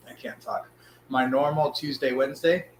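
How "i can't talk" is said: losing his voice mid-sentence; hoarse voice cracking to a whisper; voice giving out. Real, not acted. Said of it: "it's kinda hard to talk".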